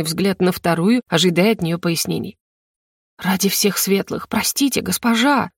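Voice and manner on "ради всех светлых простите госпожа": ordinary delivery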